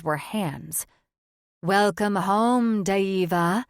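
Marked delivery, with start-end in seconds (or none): 1.6-3.6 sibilant welcome. Acted. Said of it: "Their sibilant voices".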